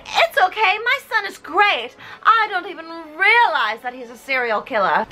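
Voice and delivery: a hint of a high, doting mom; lightly voiced mother excusing her son; oblivious mom. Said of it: "his mom danced with".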